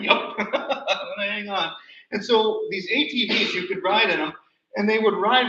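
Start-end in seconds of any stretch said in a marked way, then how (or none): 0.0-1.7 laughing reply. Retold or imitated. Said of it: "I'm like".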